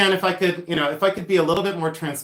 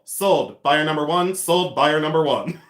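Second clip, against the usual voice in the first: auctioneer sold call. Shown as a demonstration. Seller finishing her demo chant with the sale call. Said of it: "I forgot the sold".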